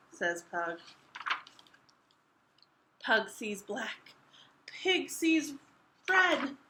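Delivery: expressive picture book reading; reading to children. A narrator's reading. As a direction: read it out to young listeners.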